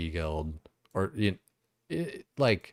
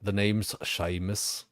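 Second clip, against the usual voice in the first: put-on Scottish accent try; slower than usual. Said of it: "trying out Scottish RP voice".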